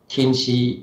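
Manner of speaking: 轻视 said slowly and deliberately as a sample word; 轻视 read out slowly as a sample word; reading demo. Shown as a demonstration. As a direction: slowly sound out 轻视 for the class. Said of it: "咱轻念白话音".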